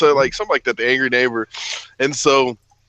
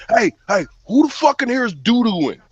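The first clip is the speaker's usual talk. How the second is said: mock angry neighbor; 8 semitones higher than usual. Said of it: "And he's like".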